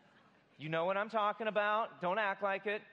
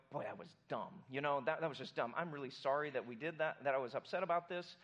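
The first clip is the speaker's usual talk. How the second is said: sheepish apology; 4 semitones lower than usual. Retold or imitated. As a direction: admit it was dumb, gently. Morning-after apology.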